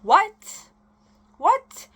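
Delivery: high, loud incredulous what; high, loud disbelieving yelp at the screen; outraged disbelief. Real, not acted. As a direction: shriek it in disbelief.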